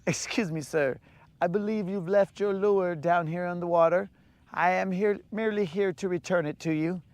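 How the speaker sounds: lightly voiced courteous fish; polite Canadian fish. Fisherman imagines a polite fish returning the lure, lightly voiced. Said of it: "he'll be like".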